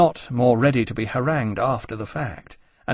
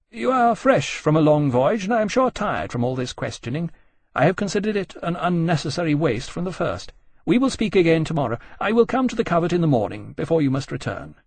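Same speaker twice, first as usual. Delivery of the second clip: higher-pitched, lofty politeness; mild hauteur; 5 semitones higher than usual. Acted. Nelson dismissing the captain until tomorrow, mildly haughty. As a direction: close the discussion with a touch of superiority. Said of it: "said with a little more hauteur".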